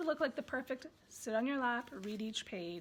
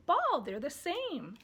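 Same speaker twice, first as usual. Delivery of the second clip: put-on slow baby talk; 4 semitones higher, 4 dB louder, slower than usual. Shown as a demonstration. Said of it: "you pick up their ball and you say".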